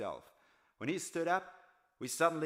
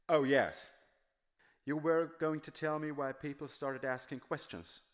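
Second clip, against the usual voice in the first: a lightly voiced old tramp, higher; tramp's voice; 3 semitones higher than usual. Tramp answering Dagny, lightly voiced and higher. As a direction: speak as the worn-out tramp, remembering.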